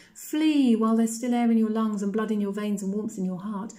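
high-pitched, insistent plea to escape; urgent warning. A narrator's reading. Ghost girl begs Coraline to save herself, urgent.

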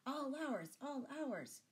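high-pitched gleeful gloat over the spoils; gloating chuckle. A narrator's reading. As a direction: relish it with a hint of a chuckle. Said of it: "he chuckled".

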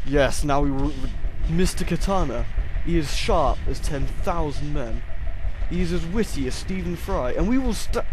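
loud, grandiose proclamation; hammed-up warrior bragging; shouted battle boast. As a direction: proclaim your weapon's glory at full voice. Boasting of sword mid-fight.

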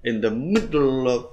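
words run together in one burst; quick linked-up phrase demo. Shown as a demonstration. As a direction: rattle the phrase off as one unit. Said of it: "rất nhanh ạ".

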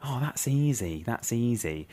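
quiet, slow muttered imitation of kids; hushed schoolkid aside; under the breath. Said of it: "sort of saying under their breath".

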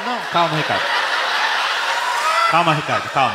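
plain-pitched soothing against hysteria; calming down. Acted. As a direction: talk an excited friend down. Narrator calming the excited friend.

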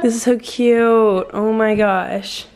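drawn-out, gushing delight; slow, swooning over something cute. Real, not acted. Gushing over friends' baskets.

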